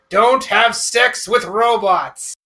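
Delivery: slow, deliberate public service warning; PSA announcer voice. Retold or imitated. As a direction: read it out like an old PSA, slowly. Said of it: "that P S A in my head".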